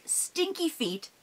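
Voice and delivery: lightly voiced stinky troll. Storyteller playing a troll for the kids. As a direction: play the troll, nose wrinkled. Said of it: "imagine that I have".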